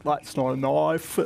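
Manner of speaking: mock foreigner's Aussie accent, slow, mouth wide open on "knife". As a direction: imitate a tourist overdoing the Australian accent, drawn out. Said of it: "when foreigners try to do an Aussie accent ... open their mouth a lot".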